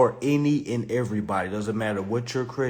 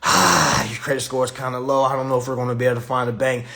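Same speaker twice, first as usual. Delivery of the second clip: hesitant dealer; 3 dB louder, faster than usual. Retold or imitated. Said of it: "they gonna make you feel like".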